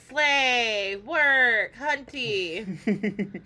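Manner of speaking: drawn-out drag slang; sassy drag queen. Pretend. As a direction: strut through each word.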